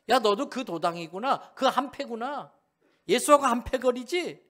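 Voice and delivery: high, loud taunting accusation; accusing bystander. Acted. (베드로를 몰아세우는 사람, 높고 큰 소리로 다그치듯)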